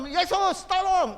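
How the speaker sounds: slow, high desperate cry for Jesus. Retold or imitated. Sick man crying out to Jesus, slow and high. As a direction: stretch out each word as a plea. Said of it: "dia berteriak".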